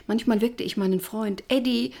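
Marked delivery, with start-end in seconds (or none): 1.5-1.9 plaintive call, pitched up; whining. Acted. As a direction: whimper his name like a frightened man. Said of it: "jammerte ich". (jammernd, kläglich rufend)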